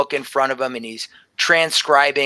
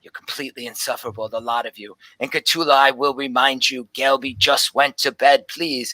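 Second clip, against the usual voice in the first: put-on grumpy old professor; 3 semitones lower than usual. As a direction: brush them off like pests. Grumpy professor scolds visitors.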